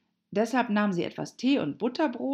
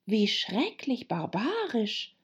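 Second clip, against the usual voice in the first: put-on higher, slow girl's exclamation; drawn-out, higher outcry; exclaiming; 7 semitones higher, slower than usual. A narrator's reading. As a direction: exclaim it in a raised pitch. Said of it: "rief Alice".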